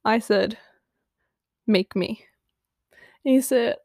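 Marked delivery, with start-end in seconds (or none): 1.7-2.2 hushed flirty challenge; teasing whisper.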